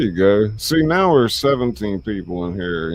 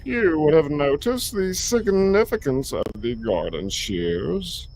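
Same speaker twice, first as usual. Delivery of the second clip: high put-on gentleman voice; 11 semitones higher than usual. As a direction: voice pitched way up.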